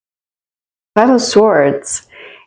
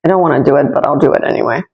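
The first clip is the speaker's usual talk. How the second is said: reluctant grumble; 5 semitones lower, faster than usual. Retold or imitated. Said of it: "It's not gonna be like".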